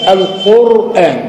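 القرآن slow, with a full heavy emphatic r. Shown as a demonstration. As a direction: stretch القرآن and make its r thick and heavy. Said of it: "فتفخم القرآن". (القرآن ببطء مع تفخيم الراء)

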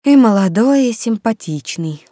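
mildly dejected, starting high and sinking; dejected sigh. A narrator's reading. Rita admitting the boss is attractive, dejected. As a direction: sigh it out, dragging the words. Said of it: "удручённо вздохнула Рита".

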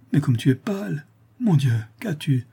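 a touch of fearful concern; anxious alarm. A narrator's reading. Father sees his daughter pale, anxious alarm.

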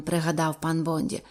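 ordinary delivery, nothing marked

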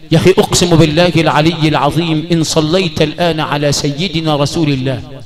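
ordinary talk, nothing marked

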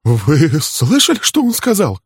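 slow, high, breathless gasping; gasping for air in shock. A narrator's reading. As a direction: Sutton panting after the accusation. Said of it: "задыхаясь".

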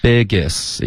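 "Biggest" with a loose, open first vowel; relaxed open vowel. Shown as a demonstration. Teacher models for student, relaxed "Biggest". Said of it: "放松一点".

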